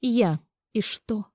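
defiant. A narrator's reading. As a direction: throw the question back brazenly. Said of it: "вызывающе спросила она". (вызывающе, с повышением тона)

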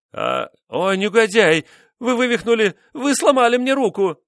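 high, loud pained shriek; cry of pain. A narrator's reading. Wife screaming at husband breaking her hand. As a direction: scream as your hand is crushed.

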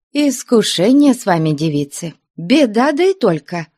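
put-on high, fussing old nun's scolding; a flustered nun chiding girls. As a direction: scold the girls like a fretful abbess. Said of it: "бранилась она".

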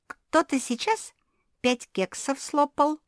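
high, slow snitching tone; tattling. Acted. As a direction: tell on her sweetly. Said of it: "наябедничала Мафи".

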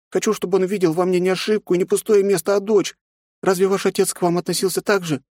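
put-on high girl's voice, hurt complaint; a little girl pouring out her hurt; hurt young girl. A narrator's reading. Nastya complains to aunt about father.

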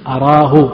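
"أراه" opening on a, araahu; fatha on hamza. Shown as a demonstration. Teacher citing all copies of the Sahih, "أراه" said araahu with fatha. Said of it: "بفتح الهمزة".

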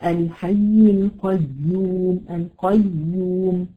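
القيوم said slowly twice, the doubled ya held; slow repeated demo. Shown as a demonstration. Teacher repeating القيوم slowly so students hear its length. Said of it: "بص الزمن بتاعها".

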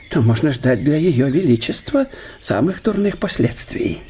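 чуть понизив голос, по секрету; делиться слухами осторожно; добродушный профессор, доверительно. Acted. Штелин делится придворными слухами. (гость доверительно пересказывает придворные новости)

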